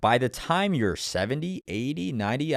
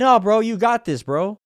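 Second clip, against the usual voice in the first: cheering supporters; 8 semitones higher, 6 dB louder than usual. Retold or imitated. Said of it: "They said".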